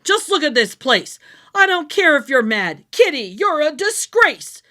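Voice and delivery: loud, fed-up scolding of the cat; angry scolding. Acted. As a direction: tell the greedy cat off. Owner furious at Kitty.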